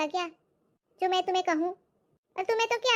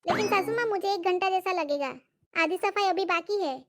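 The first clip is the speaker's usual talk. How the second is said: polite protest. Acted. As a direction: gently push back at the mother-in-law. Bahu protests sweetly.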